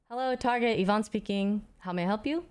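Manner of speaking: casual, rehearsed phone-answering voice. Shown as a demonstration. HR worker answering the phone at Target, light phone voice. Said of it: "kind of, like, a phone voice".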